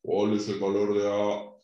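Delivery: voz de señor oscuro, algo grave; voz cavernosa. Pretend. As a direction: pregunta con tono de ultratumba. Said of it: "con una voz cavernosa". (voz cavernosa de broma)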